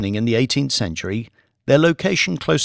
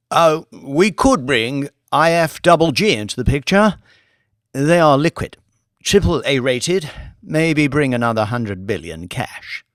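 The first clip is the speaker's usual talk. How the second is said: a lightly voiced eager junior banker; Billy; 3 semitones higher, 4 dB louder than usual. Billy pitching a plan to the lord, lightly eager. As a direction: offer the idea a little keen.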